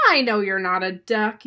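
loud, exasperated shout at normal pitch; yell. Acted. Rosie answers angrily chirping Gizmo, yelling. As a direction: yell back, leaning on the first word. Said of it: "yelled Rosie".

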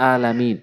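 "আলামিন" with a plain glottal first vowel; wrong hamza. Shown as a demonstration. Teacher repeating the common mistake, plain-vowel "আলামিন". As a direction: open "আলামিন" on hamza instead of ain. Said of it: "হামজা এনে উচ্চারণ করে".

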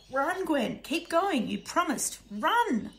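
loud, high urgent shouts; father shouting his daughter forward. Acted. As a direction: drive her on with every word. Father urging daughter to flee.

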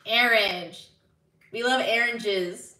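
"orange" said AIR-inj, "oranges" AIR-in-jez; regional orange. Shown as a demonstration. Streamer repeats the shown word, "orange" as AIR-inj. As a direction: give "orange" and "oranges" an "air" first vowel. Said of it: "orange is pronounced orange".

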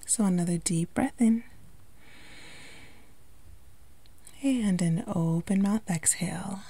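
calm meditation delivery with long pauses; unhurried, lightly hushed guiding into relaxation; guided meditation. Acted. Yoga instructor guiding listeners to relax the body, calm meditation voice.

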